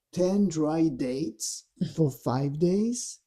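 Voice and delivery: mock-incredulous questions with rising ends; taunting. Dark voice needling Yeshua about his fast, taunting. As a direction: needle him with leading questions, imitating a tempter. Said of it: "Wow, he is taunting him".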